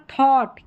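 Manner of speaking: थॉट with an open "aw"; थॉट, open vowel then t; OUGH as "aw". Shown as a demonstration. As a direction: say थॉट with GH silent. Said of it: "अ करके उच्चारण".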